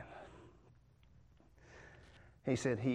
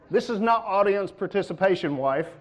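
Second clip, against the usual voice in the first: louder, laughing through a joking scold; laughing rebuke; 4 semitones higher, 6 dB louder than usual. Real, not acted. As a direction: tease the heckling wife while laughing. Joking rebuke to heckling wife.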